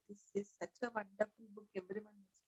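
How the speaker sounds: very soft, almost lost; voice fading away. Real, not acted. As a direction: let the voice fade until barely audible. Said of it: "Your voice a bit faded away".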